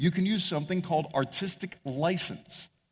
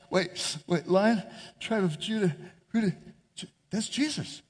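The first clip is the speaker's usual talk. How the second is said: John's realization; 3 dB quieter than usual. Retold or imitated. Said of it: "it's almost like John's like".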